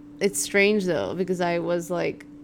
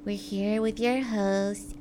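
mock podcast intro; 3 dB quieter, slower than usual. Parody of a commercial podcast intro.

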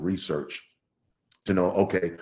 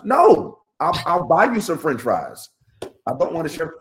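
mock refusal; 6 semitones higher, 3 dB louder than usual. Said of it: "she was like".

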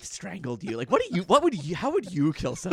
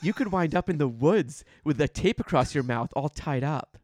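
smiling creep. Retold or imitated. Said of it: "he's smiling".

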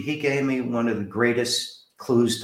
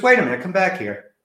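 mock call back; 8 semitones higher, 6 dB louder than usual. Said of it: "He goes".

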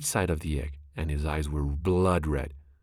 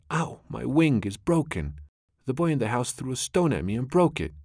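crying out in pain; 7 semitones higher than usual. Acted. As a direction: pretend to be wounded, pleading high. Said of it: "cried out".

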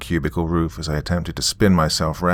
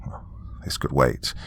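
weary whisper to himself; 5 semitones lower, 7 dB quieter than usual. A narrator's reading. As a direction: breathe it out, barely voiced. Tired sigh to himself.

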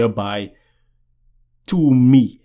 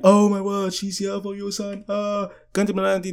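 higher, mock motherly fuss; lightly voiced excited mom; 8 semitones higher, 4 dB quieter than usual. Mom hearing she's here for her son, mock excited. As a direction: lightly imitate a fussing mom, pitched up. Mom reacting to girl's arrival.

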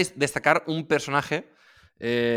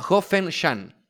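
slow spelling out; 6 semitones higher, 4 dB louder, much slower than usual. Shown as a demonstration. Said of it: "¿Cómo se llamaba?".

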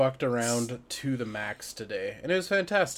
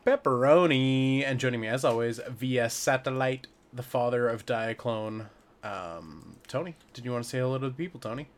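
upbeat radio host opener; podcast host intro. Acted. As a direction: announce it like a show host.

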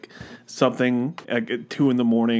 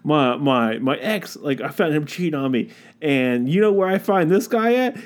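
1 mocking TikTok girlfriend; 8 semitones higher than usual. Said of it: "it was like".

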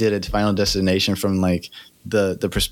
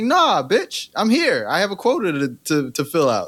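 much higher-pitched indignant comeback; defiant retort; 6 semitones higher than usual. Acted. Death refusing a victim's excuses, defiant and high-pitched. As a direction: cut them off in a high, defiant voice. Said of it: "It's like".

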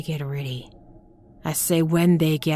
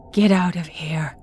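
louder frantic whisper; urgent harsh whisper; 3 semitones higher, 6 dB louder than usual. Acted. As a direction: push the whisper, panicking. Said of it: "albeit as a trembling whisper".

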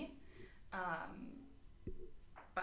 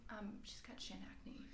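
whispered aside; 8 dB quieter than usual. Retold or imitated. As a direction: whisper the embarrassing detail. Mock introduction of friend Sarah.

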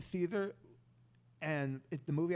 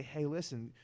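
very polite; 4 semitones lower, 5 dB quieter than usual. Retold or imitated. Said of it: "very politely say".

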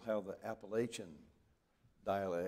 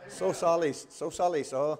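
lightly voiced, higher and louder apologetic caller; mock apologetic phone lady; 7 semitones higher, 9 dB louder than usual. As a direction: echo her rushed apology with a laugh in it. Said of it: "She said".

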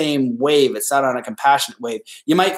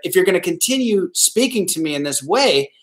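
stern; 5 semitones higher than usual. Shown as a demonstration. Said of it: "you could be more stern".

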